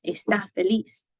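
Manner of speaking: "está" stressed on the final syllable, es-TÁ; stress on last syllable. Shown as a demonstration. Teacher contrasting it with "this table", final-syllable stress on "está". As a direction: land on the TÁ of "está". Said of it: "gives us the emphasis".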